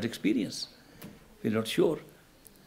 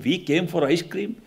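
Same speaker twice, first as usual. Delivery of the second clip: retold angry scolding; 4 semitones higher than usual. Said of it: "His friend cursed him".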